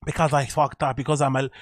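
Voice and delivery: loose imitation of a Euro-American accent; mock somewhat European, somewhat American accent; mimicked odd accent. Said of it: "what's that accent?".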